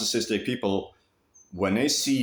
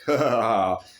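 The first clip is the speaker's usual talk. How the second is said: sarcastic laugh; 3 dB louder than usual. Retold or imitated. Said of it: "very, like, sarcastic".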